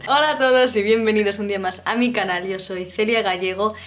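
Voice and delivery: speaking with a swollen cheek; after wisdom teeth. Real, not acted. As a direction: talk carefully after a tooth extraction. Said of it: "si me veis rara es que me han sacado la muela del juicio".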